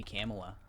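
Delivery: Kamala as CAM-uh-la; front-stressed Kamala with A as in cat; suggested pronunciation. Shown as a demonstration. Co-host suggesting another version, Kamala said CAM-uh-la. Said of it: "I think it might be".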